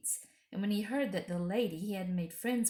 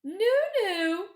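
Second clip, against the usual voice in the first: laughing no; 13 semitones higher, 9 dB louder than usual. Acted. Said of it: "said the Queen with a laugh".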